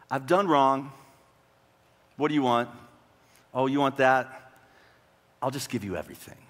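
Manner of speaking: mildly defeated king giving in; defeatist. Acted. Hezekiah surrendering to the king of Assyria, mildly defeatist. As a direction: give in with a resigned drop at the end. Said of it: "It seems terribly defeatist".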